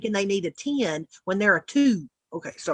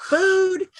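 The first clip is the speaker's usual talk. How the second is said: emphatic; 11 semitones higher than usual. Shown as a demonstration. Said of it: "the three Fs".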